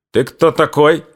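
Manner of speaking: high shouted ты кто такой; furious shout. A narrator's reading. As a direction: bark the question, losing control. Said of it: "не владея собой, крикнул Лесницкий".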